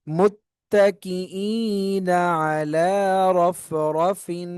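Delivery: very slow, drawn-out chanted recitation; slow Quran recitation. Shown as a demonstration. Teacher recites the full verse for students, slow chant. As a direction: chant the whole verse slowly.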